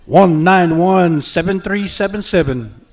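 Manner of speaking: slow, deliberate ad-read number call; commercial announcer. Real, not acted. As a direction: read the ticket like a radio spot. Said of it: "you kinda sound like a commercial".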